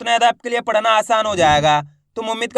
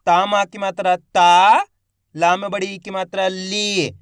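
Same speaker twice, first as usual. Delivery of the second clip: syllable-by-syllable demo; much faster than usual. Shown as a demonstration. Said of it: "देखो किस तरीके से".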